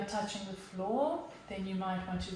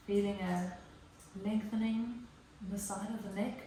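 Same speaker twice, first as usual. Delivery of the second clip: guided yoga meditation. Real, not acted. Yoga teacher settles the class into child's pose, calm guided delivery. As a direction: gently talk them down into stillness, leaving space.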